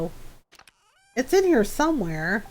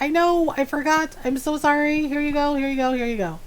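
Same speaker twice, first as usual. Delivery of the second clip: higher-pitched mock contrition; playful apologising; 5 semitones higher, faster than usual. Farmer apologising while feeding mad animals, playful high placating.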